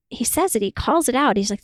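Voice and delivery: usual speaking voice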